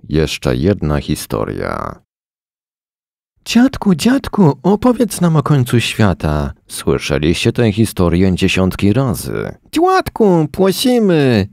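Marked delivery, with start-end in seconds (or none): 3.4-6.5 put-on high, eager kid begging; pleading child voice. Children begging grandpa for story. 9.7-11.5 put-on high child voice with a lisp on płacimy; lisping little girl. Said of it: "Zasepleniła Zosia".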